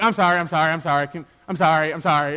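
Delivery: rattled-off, repeated mock apology; insincere, hurried sorry; dismissive apology. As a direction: toss it out to end the talk. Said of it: "Can the conversation end?".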